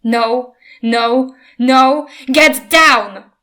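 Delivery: a rider shouting the dragon down; shouting commands. A narrator's reading. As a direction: build to a fierce command. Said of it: "swinging the whip and shouting".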